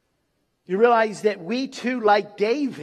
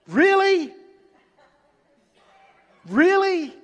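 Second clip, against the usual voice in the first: incredulous; 8 semitones higher, 4 dB louder than usual. Real, not acted. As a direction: question it as if you can't believe it. Disbelief at the petty last words.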